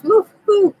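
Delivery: high, loud cheering whoop; excited whoop. Real, not acted. Streamer whoops as her dog joins the live chat.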